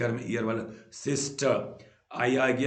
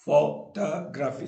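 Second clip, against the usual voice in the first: फोटोग्राफी slowed, first syllables stretched apart; 3 semitones higher than usual. Shown as a demonstration. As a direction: draw out the opening beats of फोटोग्राफी. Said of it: "तो अब चार".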